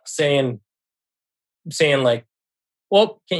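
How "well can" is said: high-pitched mock taunt; teasing. Mother bouncing in front of her son, teasing. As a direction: lightly imitate someone teasing. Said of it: "just kinda teasing him".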